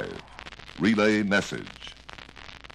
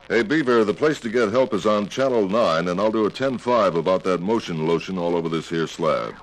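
over cb radio; 3 dB louder than usual. Acted. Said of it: "let's review the preceding dialogue".

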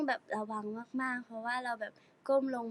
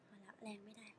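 whisper; 3 semitones lower, 19 dB quieter than usual. Real, not acted. In pain, speaking softly.

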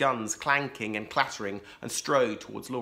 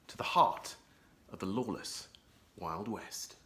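dramatic fade; 4 semitones lower, 6 dB quieter than usual. A narrator's reading. Dramatic story intro fading.

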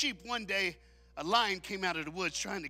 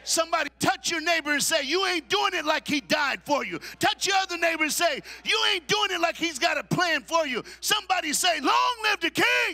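full-force preaching; 6 semitones higher, 4 dB louder than usual. Acted. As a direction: build it like a rallying cry.

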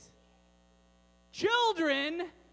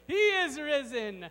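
half-hearted shout; 6 dB louder, slower than usual. Shown as a demonstration. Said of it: "where we shout out".

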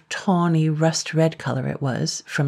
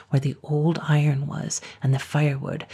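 ordinary delivery, nothing marked

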